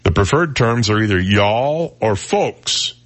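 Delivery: slow, prim reading of the professor's email; prim professor quote. Retold or imitated. Host quoting the professor's email in a slow, prim voice. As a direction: read the email like a fussy professor. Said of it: "his email read".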